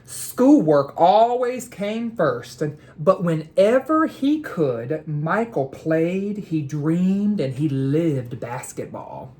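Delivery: slow, expressive storybook reading; read-aloud narration. A narrator's reading. Teacher reading a picture book aloud to students, expressive and slow. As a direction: read it like a bedtime story for kids.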